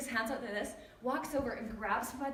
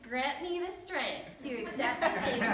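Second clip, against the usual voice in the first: put-on lightly snooty child parroting a prayer; snooty kid; 2 semitones higher than usual. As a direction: mimic mom's prayer with a touch of snootiness. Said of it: "in this kind of snooty voice".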